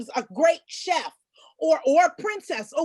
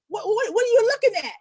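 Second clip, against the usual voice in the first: put-on puzzled little girl; 7 semitones higher, 3 dB louder, faster than usual. Girl confused by stares.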